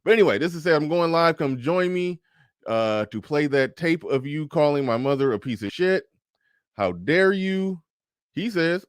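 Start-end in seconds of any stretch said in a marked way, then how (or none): 0.6-7.8 high, mock-dramatic whiny daughter voice. Reading her Father's Day post to the father as a mock-offended daughter. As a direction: ham up her wounded outrage, stretching "How dare you".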